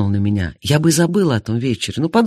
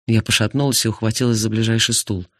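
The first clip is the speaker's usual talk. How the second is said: usual speaking voice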